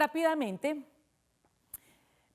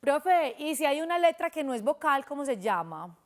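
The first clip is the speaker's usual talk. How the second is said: lightly voiced pupil, higher at first; pupil asking; 3 semitones higher than usual. Teacher voicing a pupil's question, lightly higher.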